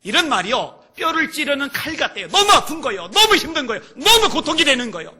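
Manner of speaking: high, shouted sermon climax; full-force preaching. Real, not acted. Preacher voicing the pain of being mocked, impassioned shouting. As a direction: pound each phrase out at full voice.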